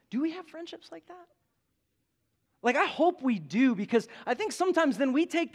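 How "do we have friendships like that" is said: higher, softer pleading repeat; pressing the congregation a second time; lifted repeat. Real, not acted. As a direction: raise the pitch to press the question home. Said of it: "Do we have friendships like that anymore?".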